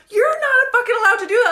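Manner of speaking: high, loud protest on the edge of laughter; retold indignant protest. Naked customer protesting to laughing masseuses, indignant. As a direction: protest loudly in amused disbelief. Acted protest in embarrassing story.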